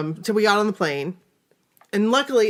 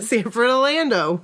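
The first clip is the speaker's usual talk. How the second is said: a hint of an old-timer; old person voice; 2 semitones higher than usual. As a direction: repeat it in a mild elderly voice. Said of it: "You said it like an old person".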